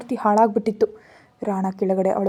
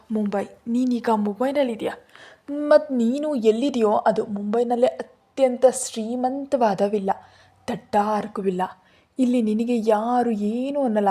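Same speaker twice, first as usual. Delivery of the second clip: slight laugh; 3 semitones higher than usual. Acted. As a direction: tease her lightly about where she is. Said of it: "ಸ್ವಲ್ಪ ನಕ್ಬಿಟ್ಟಂದ".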